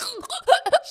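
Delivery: high, loud mock choking noise; hammed-up high splutter; dramatic gagging reaction. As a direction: imitate someone dramatically gagging on a shot. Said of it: "she has a very dramatic reaction".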